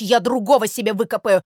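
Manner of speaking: wounded, complaining sparrow tirade; aggrieved scolding. Acted. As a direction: air your grievance against a false friend. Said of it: "бранился Воробей Воробеич".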